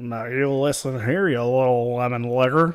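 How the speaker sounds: very loud, booming put-on western cowboy voice. Turning to people licking lemons, retelling a line in a cowboy western voice. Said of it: "I tried to get my best cowboy Western voice on".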